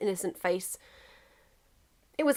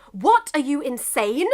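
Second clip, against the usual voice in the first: incredulous; 5 semitones higher, 6 dB louder, slower than usual. Acted. England incredulous at Russia.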